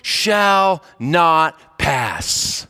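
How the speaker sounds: slow, drawn-out wizard's decree; Gandalf's command. Retold or imitated. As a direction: draw out each word like an ancient wizard barring the way. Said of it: "he just stands there and he says".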